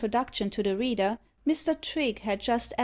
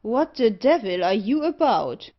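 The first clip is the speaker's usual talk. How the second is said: loud, angry demand; furious cry; 7 dB louder than usual. A narrator's reading. Burnt gentleman scolds the man with hot irons, furiously. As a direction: thunder it at a careless assistant. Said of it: "cried the gentleman furiously".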